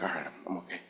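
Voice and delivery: very soft, low self-reassurance; peaceful relief. Retold or imitated. Believer calming after the pastor's prayer, peaceful. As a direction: let it settle almost to nothing. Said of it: "I had a sense of peace come over me".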